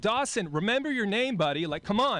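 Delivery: mock frantic coach; exasperated coach. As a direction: urge the kid on, fed up. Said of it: "and I'm like".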